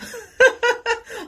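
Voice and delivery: high, loud burst of laughter; amused giggle. Real, not acted. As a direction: laugh at your own slip. Laughs at own slip.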